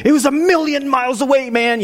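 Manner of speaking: high-pitched, mock-excited overstatement; wildly overexcited boast; excited exaggeration. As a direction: get carried away, pitch jumping up. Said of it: "I get excited".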